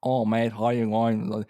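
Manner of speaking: loud, slow mock-Aussie greeting; thick Australian accent. Host imitating locals he misunderstood, thick Australian accent. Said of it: "really thick Australian accent".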